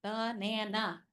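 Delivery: banana said softly, one chin drop per syllable. Shown as a demonstration. Teacher showing children the chin drop, soft and syllable by syllable. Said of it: "You can also chin drop".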